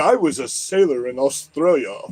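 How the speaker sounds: put-on a failed, lightly done Australian accent. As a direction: try an Australian accent and miss. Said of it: "I can't do an Australian accent".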